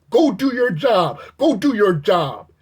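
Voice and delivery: retold yell. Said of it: "And he's yelling".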